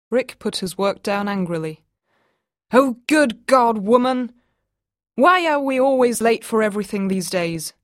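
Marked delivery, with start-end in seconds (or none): 2.7-7.7 loud, exasperated, higher; angry outburst. Acted. Husband yelling at wife about always being late, loud and exasperated. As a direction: throw the words up in frustration.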